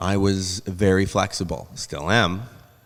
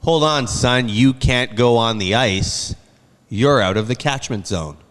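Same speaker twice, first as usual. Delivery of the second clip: a hint of a stern official; lightly voiced rink official turning him away; 3 semitones higher, 5 dB louder than usual. Rink official quoted in story.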